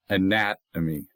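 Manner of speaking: anatomy with NAT stressed; stress on second syllable. Shown as a demonstration. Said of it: "accent on the second of four".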